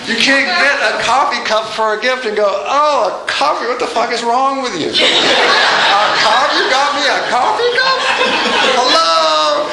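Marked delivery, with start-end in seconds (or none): 2.7-9.6 hammed-up indignation, higher and laughing; half-laughing mock tantrum, pitch climbing; mock outrage. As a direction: pretend to be insulted by a coffee cup gift. Mock outraged gift recipient.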